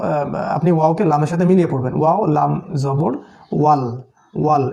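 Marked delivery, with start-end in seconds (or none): 3.5-4.7 ওয়াল with a short "a" straight into "l"; no vowel lengthening. Shown as a demonstration. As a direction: say ওয়াল without drawing out the vowel. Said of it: "টানটা আর দিতে হবে না".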